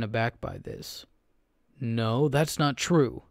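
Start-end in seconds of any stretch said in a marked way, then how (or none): 1.8-3.2 slow, stunned, loud denial; shocked denial. Acted. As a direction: deny it in disbelief. Narrator denies accusation.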